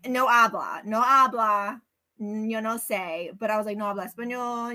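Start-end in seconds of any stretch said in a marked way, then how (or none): 0.1-3.4 deliberately clumsy American-accented Spanish, louder on "habla"; halting, hammed-up gringo accent in Spanish; bad Spanish accent. Shown as a demonstration. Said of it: "I should just be like". 3.8-4.7 put-on natural Spanish accent, slightly raised; light, casual Spanish-accented reply. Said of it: "I can do the accent".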